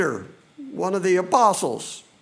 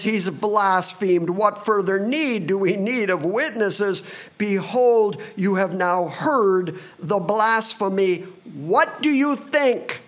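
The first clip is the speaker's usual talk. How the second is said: rising, pressing the council for a verdict; indignant high priest; 3 semitones higher than usual. Acted. Caiaphas demands the verdict.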